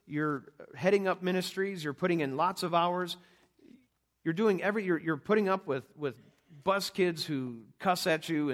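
preaching at full force from the pulpit; a fervent sermon build. Real, not acted. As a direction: press the point home to the congregation. Preaching to the congregation.

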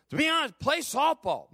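high-pitched retold wife's voice; imitated wife. Acts out wife's answer.

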